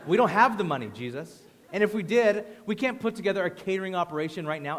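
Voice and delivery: mildly sarcastic acted objection; snapping back. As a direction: push back, hitting the first words hard. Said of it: "they snap back at him".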